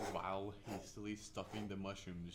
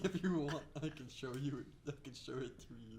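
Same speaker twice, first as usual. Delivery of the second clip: lightly put-on alien creature; 4 semitones higher than usual. Enderman offering to show the fortress, alien voice. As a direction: speak as an obliging alien. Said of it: "Talk it more like an alien".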